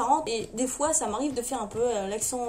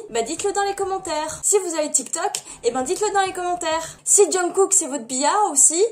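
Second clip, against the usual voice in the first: overdoing it; 4 semitones higher, 3 dB louder than usual. Real, not acted. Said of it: "Je pense que je force un petit peu".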